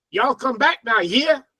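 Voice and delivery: lightly put-on American Southern accent; a hint of Southern US twang. Shown as a demonstration. Giving an example to learners, light Southern US accent. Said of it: "that's the Southern accent".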